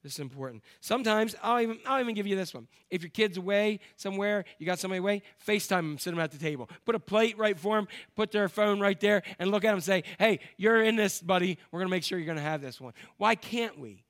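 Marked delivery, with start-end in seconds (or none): 0.0-0.6 quiet emphasis. Shown as a demonstration. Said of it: "just say". 10.2-12.9 cheerful call. Retold or imitated. Talking to absent kid on FaceTime.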